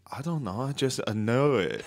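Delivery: imitated Asian accent, slightly halting; mock Asian accent. Asian man explaining how he knows it, mock Asian accent. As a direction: put on an Asian accent for a simple admission. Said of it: "it's classic Asian".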